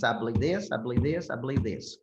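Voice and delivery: "I believe this" repeated in an even, measured rhythm; each "I believe this" as a matching beat, briefly paused; rhythmic cadence. Shown as a demonstration. Coach showing listeners his speaking pattern, rhythmic cadence. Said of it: "I have a rhythm and a cadence".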